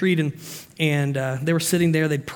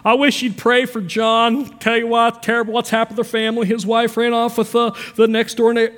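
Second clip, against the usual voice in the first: a lightly voiced busybody passing on news as a prayer; gossipy prayer request. Preacher mocks a church gossip giving a prayer request, lightly voiced busybody. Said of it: "it's nothing more than gossip".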